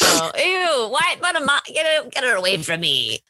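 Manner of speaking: high mock horror; disgusted. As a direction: squeal away in disgust. Mock disgust at being millennial.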